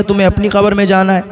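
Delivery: a touch of teasing in the wife's retort; light mockery. Wife brushing off her husband's call to prayer, mildly mocking. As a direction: tease the husband, lightly dismissive. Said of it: "میں مذاق کرتی تھی".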